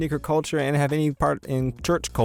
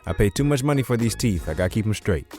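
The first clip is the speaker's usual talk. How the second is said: lisping with retainers. Real, not acted. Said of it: "if you hear me speaking with the lisps".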